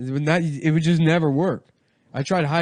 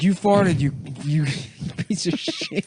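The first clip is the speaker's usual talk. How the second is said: mock angry; 6 semitones higher than usual. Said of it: "Be like".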